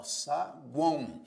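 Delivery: slow sa-guão, syllables apart; saguão split into syllables. Shown as a demonstration. Teacher showing the nasal triphthong, saguão split slowly. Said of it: "na palavra saguão".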